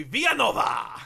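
Villanova with a Hispanic accent; hint of a Hispanic accent. Shown as a demonstration. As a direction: say it as a Spanish-accented name. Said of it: "the accent you're going for".

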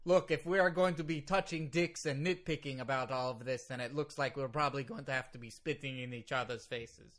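put-on Russian-accented lawyer mangling idioms; fluctuating Russian accent. Lawyer objects to nitpicking, fluctuating Russian accent. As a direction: protest in wobbly Russian-accented English. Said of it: "Now it sounds more like what you sounded like on Raw".

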